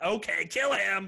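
high, slow, calm command to kill; mock villain order. Villain tells his henchman to kill Harry, slow and high. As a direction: give the order coolly, stretched out.

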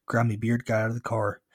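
ordinary delivery

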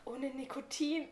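slow, moaning theatrical start; too moany. Shown as a demonstration. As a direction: overdo the sigh on it. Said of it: "das war zu sehr gestöhnt".

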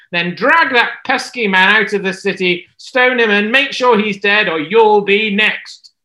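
loud, menacing command read as a threat; scheming queen's letter. Acted. Jezebel dictating orders to the elders, menacing. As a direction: sneer each order like a wicked queen.

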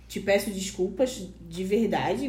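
slow, soft and earnest, half-acted; sincere apology. Retelling her apology to Camilo, softly sincere. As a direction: ask forgiveness gently and slowly. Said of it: "bem sincera".

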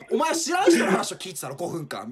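laughing while mocking; laughing retort. Telling off a friend who listened five minutes, laughing. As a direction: crack up at the absurdity. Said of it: "みたいな".

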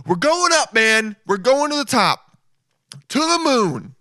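high, pumped-up cheer; big excited rally cry; hyped-up astronaut. Pretend. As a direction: hype the crew about going up. Imagined astronaut hyping the launch.

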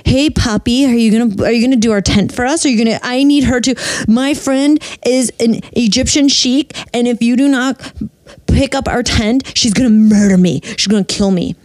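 a light coaxing tone to charm a stranger; flirty sweet-talk. Retold or imitated. Friend sweet-talks a guy.

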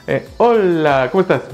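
slow, failed Argentine accent attempt; a deliberately bad Argentine accent. Shown as a demonstration. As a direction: try an Argentine accent and miss. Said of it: "Voy a hablar como argentino".

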